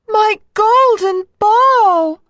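high, loud, drawn-out wail of a princess; distressed princess cry. A narrator's reading. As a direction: cry out high and slow in dismay. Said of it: "cried the princess".

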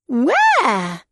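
high eager piglet; little pig voice. A narrator's reading. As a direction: ask brightly and high. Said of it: "said the little pig".

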